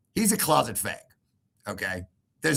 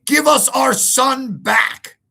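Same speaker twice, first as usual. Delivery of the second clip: much higher, louder, slow mocking parody; mock threatening demand; 13 semitones higher, 9 dB louder, much slower than usual. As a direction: ham up his dramatic demand. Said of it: "he starts threatening more".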